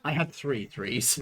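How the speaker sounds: slow, with "had" leaned on; stress on "had". Real, not acted. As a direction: put the weight on "had". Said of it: "Emphasis on the had".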